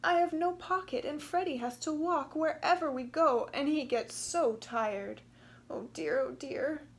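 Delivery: mild fretting kangaroo mother; understated distress ending in oh dear; a touch of tearful. Acted. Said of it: "she started to cry again".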